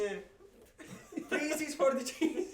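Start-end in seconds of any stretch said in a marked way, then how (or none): 1.3-2.5 put-on Swiss accent. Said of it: "in the Swiss accent".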